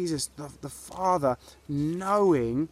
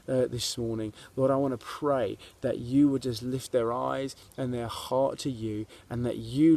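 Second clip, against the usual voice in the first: pastoral prayer. Real, not acted. Leads a prayer.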